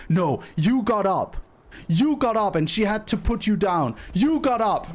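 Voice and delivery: accusing retort. Retold or imitated. Man pointing finger, accusing her.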